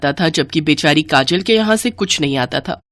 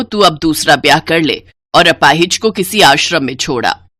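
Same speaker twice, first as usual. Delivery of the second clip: put-on lower, persuasive old woman; lower, lightly voiced mother; mother-in-law; 3 semitones lower than usual. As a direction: coax the son into remarrying. Mother-in-law agrees and urges son.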